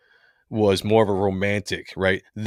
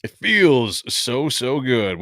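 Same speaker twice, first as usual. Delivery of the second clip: mock bliss; 2 semitones higher, much slower than usual. Echoes the clip just played.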